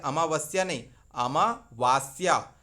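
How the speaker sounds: अमावस्या (मा के बाद छोटा अ) नहीं, अमावास्या (वा लंबा); वा को खींच कर अमावास्या कहें; wrong vs right. Shown as a demonstration. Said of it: "अमा नहीं अमावास्या". (अमावास्या में व पर बड़ा आ)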